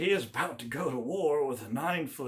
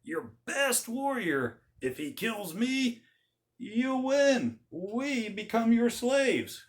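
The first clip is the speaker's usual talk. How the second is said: higher, slow, booming dare; giant's challenge; 9 semitones higher, 4 dB louder, slower than usual. Retold or imitated. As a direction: lay out the terms like a boastful giant. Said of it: "He would say".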